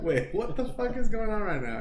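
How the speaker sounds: high, baffled outburst; a stunned listener losing composure; shocked operator. Retold or imitated. Voicing the confused operator.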